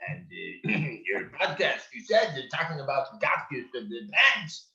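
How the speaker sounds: put-on shaky voice of a very old man. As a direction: play a fussy ninety-year-old man. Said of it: "He was doing his old man voice".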